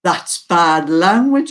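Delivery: slow, drawn-out imitated scolding; grandson's reproof. Grandson tells nana off for dialect, slow reproof. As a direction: spell out the mild reproof very slowly. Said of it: "He says".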